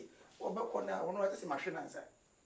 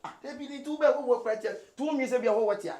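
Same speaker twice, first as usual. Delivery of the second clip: quick, raised and higher, words tumbling out; excited fast outburst; 4 semitones higher, 4 dB louder than usual. Real, not acted. Friend bursts out fast at his mate's claim, excited and louder. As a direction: fire it off fast in disbelief. Heated exchange among friends.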